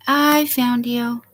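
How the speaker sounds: slow gentle repeat. Real, not acted. Streamer repeats to her guest, slow and gentle. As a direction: savour it, settling down.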